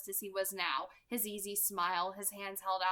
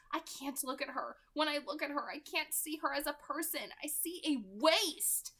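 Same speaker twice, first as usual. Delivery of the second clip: 1 bitter Rosalie; 6 semitones higher than usual. Acted.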